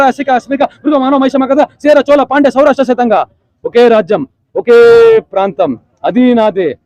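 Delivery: a hint of a proud warrior king; mildly heroic royal declamation; Satakarni dialogue. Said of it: "Gautam Buddha శాతకర్ణిలో".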